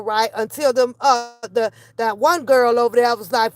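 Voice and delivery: usual speaking voice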